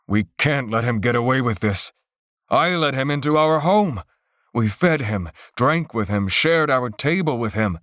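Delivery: betrayed host, mildly heated; father venting about the guest he trusted; lightly voiced angry father.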